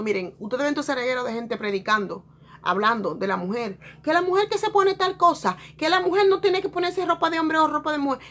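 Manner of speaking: hammed-up preacher scolding about women's clothes; mock preacher. Mocking preachers' rules about women.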